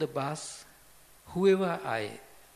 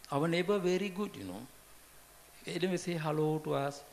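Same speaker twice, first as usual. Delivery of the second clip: chatty praise; 3 semitones higher, much faster than usual. Retold or imitated. Neighbors gossiping approvingly.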